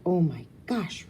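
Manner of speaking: breathless awed whisper. Acted. Rue spotting Vivi below, awed whisper. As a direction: gasp it out in awe. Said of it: "Rue says, pointing".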